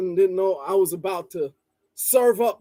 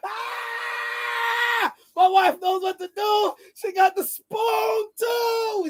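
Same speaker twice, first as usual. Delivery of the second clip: hammy stage actor; 13 semitones higher, slower than usual. Acted. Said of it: "Pardon the theatrics".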